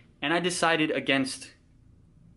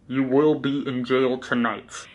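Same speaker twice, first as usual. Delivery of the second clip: police loudspeaker; slower than usual. Retold or imitated. Police threat over loudspeaker.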